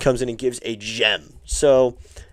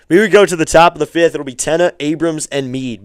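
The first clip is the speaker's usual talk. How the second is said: announcer; 2 semitones higher than usual. Acted. Streamer telling viewers who bats next, announcer voice. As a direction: read the lineup like the PA.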